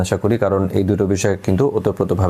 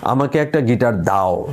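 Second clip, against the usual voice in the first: দাও pressed as a demand, said slowly; stress on দাও; slower than usual. Shown as a demonstration. Teacher demonstrating insistent stress on দাও. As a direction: push দাও like an order. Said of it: "চতুর্থ শব্দে জোর দিই".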